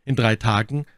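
put-on a lord cautioning his young officer; warning lord. A narrator's reading. Lord Winter voiced by narrator. (Lord Winter warnt John eindringlich, höher)

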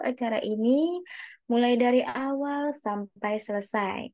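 high, measured, clear opening with pauses; good pacing. Shown as a demonstration. Teacher showing the right way to open. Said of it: "Baiknya tuh".

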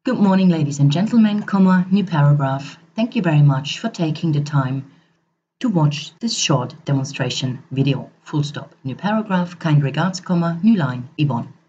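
brisk, deliberate dictation with spoken punctuation commands; dictation read. Shown as a demonstration. Dictating a demo letter into the iPhone recorder, deliberate dictation voice. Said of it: "rename that for this demo".

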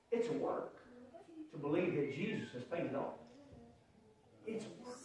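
near-whispered, soft emphasis; softly, it's a work; hushed. Real, not acted. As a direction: lean in and drop it to a whisper. Preacher drops to a hush.

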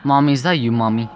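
lightly voiced uneasy daughter seeking her mother; anxious child calling. Daughter calls out to her lost mother, anxious child.

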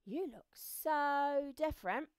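loud, high, stretched-out wonder; amazed ant. Acted. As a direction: draw it out as an astonished ant. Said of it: "said the ant".

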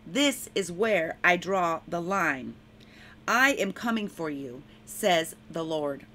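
proclaiming a prophecy in the Lord's voice; prophetic proclamation. Acted. Preacher speaks the Lord's warning to enemies, firm proclamation. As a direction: declare it with firm authority.

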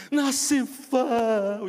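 loud, drawn-out tearful cry of a name; crying man. Retold or imitated. Big man sobbing the pastor's name in the church hallway.

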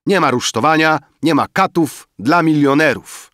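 high, loud banquet oratory; rousing toast. A narrator's reading. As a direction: proclaim it to the whole table, high and loud. Banker's loud banquet toast speech. (podniosła, głośna przemowa przy toaście)

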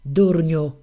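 mock angry scold; scolding old woman. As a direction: hurl the word at him like a nagging wife. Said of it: "Jak nie zacznie starucha wymyślać".

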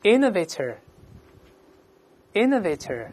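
slow, deliberate word drill; read-aloud model. Shown as a demonstration. Teacher leading students through a new word, read-aloud model. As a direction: pronounce it slowly for repeating, pausing between takes. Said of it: "大声先读一遍".

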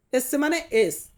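usual speaking voice

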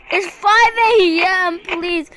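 desperate slow plea. Real, not acted. Pleading for survival.

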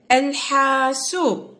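الحاسوب slowly, with the L clearly sounded; article pronounced. Shown as a demonstration. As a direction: stretch the long vowels of الحاسوب for learners. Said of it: "أقول".

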